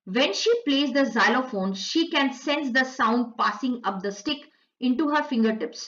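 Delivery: slow, careful reading of the English text; slow textbook read-aloud; slow passage reading. Acted. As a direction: read each word out slowly for the class. Slowly reads English passage aloud.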